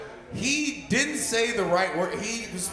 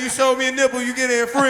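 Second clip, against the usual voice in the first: radio host; 4 semitones higher, 4 dB louder than usual. Retold or imitated. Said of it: "sound like a fucking radio host".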